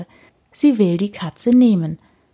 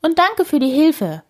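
put-on higher old lady voice; Frau Usebuse thanking; 9 semitones higher than usual. A narrator's reading. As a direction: thank the neighbour lightly. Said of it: "antwortet Frau Usebuse".

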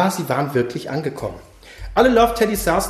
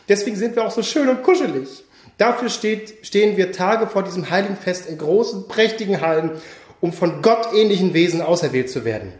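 put-on solemn old bear voice. Bearded teddy addresses new teddys.

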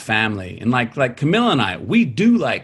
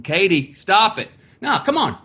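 pitched-up mock plea to stop; higher, whiny imitation of begging her to quit; pleading with Katie; 7 semitones higher than usual. Retelling his father begging Katie to stop, higher mock plea. Dad scolding daughter retold.

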